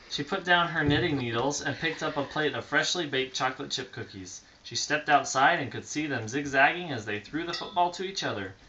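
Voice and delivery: storybook read aloud; reading to children. A narrator's reading. Parent reading a bedtime story to a child, storybook voice. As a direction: read it gently to a little listener.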